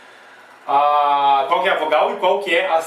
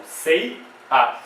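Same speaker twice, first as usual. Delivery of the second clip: "Sei", a gap, then "a"; syllable by syllable. Shown as a demonstration. Teacher answering how the separation goes, syllable by syllable. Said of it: "Vai ficar aqui a separação".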